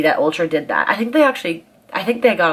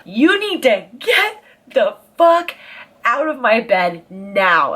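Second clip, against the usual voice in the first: retold angry rant; 3 semitones higher than usual. Ordering Douglas out of her bed, slow building mock rage. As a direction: let the fury build to the final demand.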